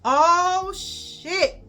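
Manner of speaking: high drawn-out class "ooh shit"; kids' ooh. Retold or imitated. Classmates reacting to the fight, high drawn ooh. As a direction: mimic the kids egging it on.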